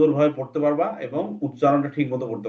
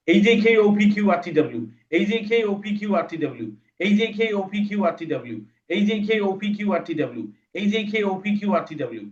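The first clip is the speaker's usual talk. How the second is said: faster still; 5 semitones higher than usual. Shown as a demonstration. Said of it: "আরো স্পিডে পড়বা".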